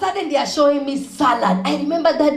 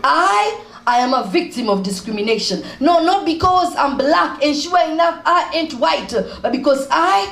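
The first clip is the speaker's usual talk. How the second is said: spoken-word poem, rhythmic phrasing; poem recitation; 2 semitones lower than usual. Acted. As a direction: recite it as stage poetry. Recites poem Bringing the Flavor.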